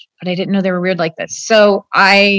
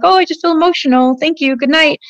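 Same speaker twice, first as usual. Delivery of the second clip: higher, forced cheerful thanks; fake emotional cheer; 5 semitones higher than usual. Saying good night to her abusers with forced higher cheer. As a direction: pretend everything is fine, a little higher. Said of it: "I'm like".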